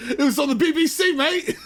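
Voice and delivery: laughing, hammed-up British accent; mock British accent. Riffing on the London hot dog, laughing mock British accent.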